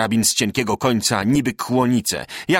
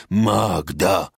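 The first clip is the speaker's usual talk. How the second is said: foreign soldiers' cry; 4 semitones lower than usual. A narrator's reading. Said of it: "wychodzi okrzyk".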